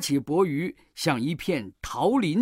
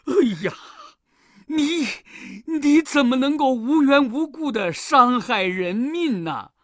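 high, loud, indignant reproach; an outraged master berating his disciple; scolding; 8 semitones higher, 6 dB louder than usual. A narrator's reading. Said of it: "责骂悟空". (又气又急地高声责骂)

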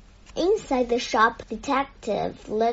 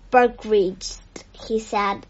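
pompous manager; 5 dB louder than usual. Acted. Pompous store manager speaks.

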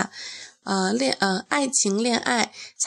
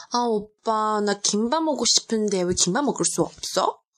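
man doing a woman's voice; much faster than usual. Retold or imitated. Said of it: "美国的男生模仿韩国的女生说话".

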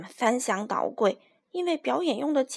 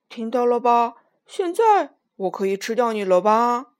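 menacing; 7 dB louder than usual. Acted. Lion turning on Minus a second time, loud menace. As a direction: threaten with nasty glee. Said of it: "恶狠狠地说道".

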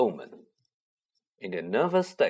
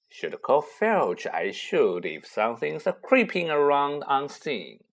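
sly poltergeist voice; 2 semitones higher than usual. Acted. Peeves threatening slyly.

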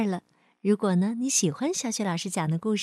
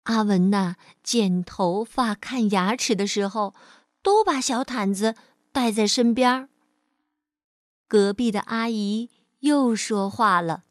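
measured, expressive storyteller voice; children's story narration. Acted. Teacher reads a picture-book story to children, storytelling. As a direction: tell it to a small child.

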